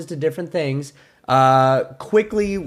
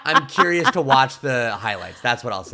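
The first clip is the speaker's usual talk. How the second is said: amused hedge. Real, not acted. Amused hedge after admitting disinterest.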